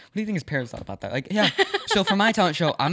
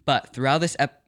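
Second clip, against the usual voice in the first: tongue stumble; 3 dB louder than usual. Real, not acted. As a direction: trip over the word and cut off. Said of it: "mm, that's good words".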